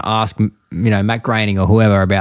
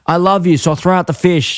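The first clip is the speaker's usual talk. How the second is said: pitched-up mock surrender; cartoon husband giving in, higher voice; Homer; 7 semitones higher than usual. Husband gives up the fish for his wife, mock-earnest. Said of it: "'cause he's like".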